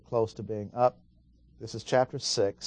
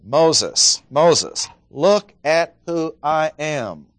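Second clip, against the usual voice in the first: louder calling Moses, Moses; God calling out; 4 semitones higher, 6 dB louder, much slower than usual. Acted. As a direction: call to Moses, urgent. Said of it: "What is he saying?".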